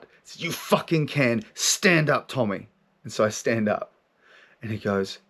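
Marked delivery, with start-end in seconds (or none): 0.4-2.7 slow, insistent retold command; forceful inner voice. Voice answers his "I can't", firmly insistent. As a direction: imitate a firm voice that won't accept "can't". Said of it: "comes in with this force of energy".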